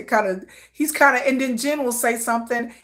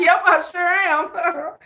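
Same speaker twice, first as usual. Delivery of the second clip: slow sarcastic agreement; 7 semitones higher, much slower than usual. Retold or imitated. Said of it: "I'm like".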